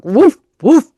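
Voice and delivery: loud, high mock woof woof; imitated dog bark. Shown as a demonstration. Radio host miming a dog for listeners, loud woofs. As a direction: bark twice like a small dog.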